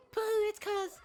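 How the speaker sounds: high, slow sneering mascot; mocking bear voice. Monokuma taunts the naive students in a high, slow sneer. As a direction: drag out the mockery high and slow.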